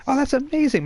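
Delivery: high, delighted gush; flirty delight. Acted. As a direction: swoon over him a little. NPC flirting with player character.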